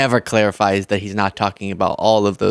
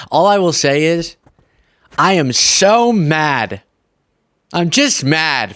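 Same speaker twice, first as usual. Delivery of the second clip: mock anger; 4 semitones higher, slower than usual. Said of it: "I told you I was gonna stay happy today".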